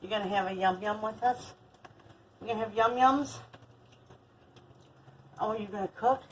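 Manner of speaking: put-on high, sing-song baby talk. Grandma cooing at her granddaughter, high baby talk. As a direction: coo it up high to a toddler.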